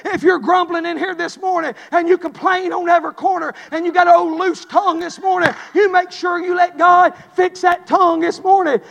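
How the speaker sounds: building to a shouted warning; preaching rebuke. Real, not acted. Preacher warning his congregation, building to a shout. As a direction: call out the grumblers, rising to a shout.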